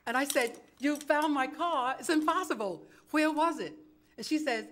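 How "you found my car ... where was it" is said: retold astonishment, pitched higher; incredulous. Woman to policewoman who found her car, incredulous. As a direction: question it in raised-pitch disbelief.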